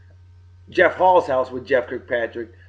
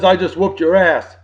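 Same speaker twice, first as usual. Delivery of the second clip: put-on Texan accent; 3 semitones higher, 5 dB louder than usual. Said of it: "I don't do that accent very well".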